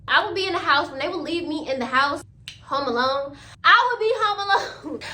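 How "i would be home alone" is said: laughing through the words, higher; can't keep a straight face. Real, not acted. Telling viewers she was home alone, laughing. Laughs at her own story.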